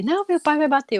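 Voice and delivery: high, loud imitation of a little boy; gloating child. Little boy predicting dad will punish his brother, gloating. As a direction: blurt it out like a gleeful tattletale. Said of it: "E ele, e ele comemorando".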